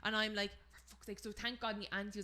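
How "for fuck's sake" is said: retold curse under the breath; exasperated aside. Muttered aside in retold story.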